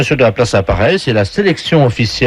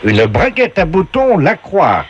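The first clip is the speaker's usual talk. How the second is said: slow, higher game voice; game show announcer; 5 semitones higher, slower than usual. Acted. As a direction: announce each prize with drawn-out flourish. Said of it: "la voix du jeu".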